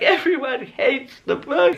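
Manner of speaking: high, slow, laughing wail; mock despair with a laugh. Writer reading notes on the draft, laughing mock despair. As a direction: wail it, half laughing at yourself.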